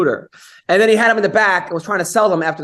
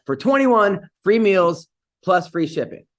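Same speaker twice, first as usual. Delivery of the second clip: ad read. Acted. Host reads sponsor ad.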